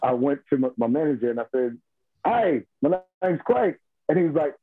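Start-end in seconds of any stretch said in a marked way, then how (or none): 2.2-3.8 slow, higher-pitched British greeting; British accent. Retold or imitated. Salesman trying a London voice on his manager, British accent. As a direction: introduce yourself in a put-on British accent. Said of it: "good enough to do a British accent".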